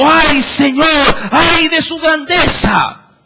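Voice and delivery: slow, loud wailing "ay"; drawn-out mourning shout; loud lament. Acted. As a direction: cry out to the Lord in mourning. Voicing mourners' lament in scripture.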